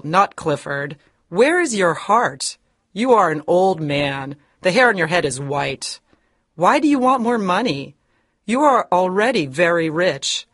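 put-on high, fierce scolding old woman; indignant high accusation; angry denunciation. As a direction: condemn his greed. Hepzibah denounces him.

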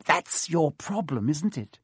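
slow, cracking with glee; a hint of cackling delight; gleeful crack. Filch mocking the scared students, slow and gleeful. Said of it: "his voice cracking with glee".

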